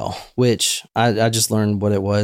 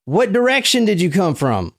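put-on hick Southern accent; 7 semitones higher than usual. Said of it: "hick Southern accent".

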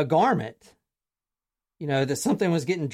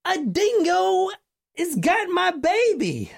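put-on a mother screaming that a dingo took her baby; frantic cry; 11 semitones higher, slower than usual. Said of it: "she cries out".

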